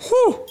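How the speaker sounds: sharp high whew from burning mouth; exhale from spicy heat. Real, not acted. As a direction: blow out the heat from the wings. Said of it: "My nose is running".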